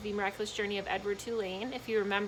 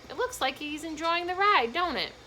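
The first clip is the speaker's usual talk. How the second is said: put-on old man; 8 semitones higher, 4 dB louder than usual. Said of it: "the old man said".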